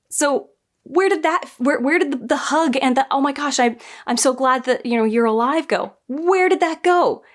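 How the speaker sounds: incredulous, as if the scene was stolen from you; exasperated disbelief. Real, not acted. Fan complaining about a cut reunion scene, exasperated and high.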